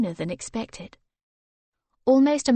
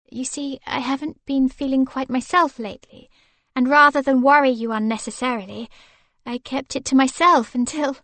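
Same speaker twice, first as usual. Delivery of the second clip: higher, quickening anxious wife; nervous confession; 4 semitones higher, 5 dB louder than usual. Acted. Wife nervously explains her doctor visit, quickening. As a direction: rush the explanation. Victoria voiced, rising urgency.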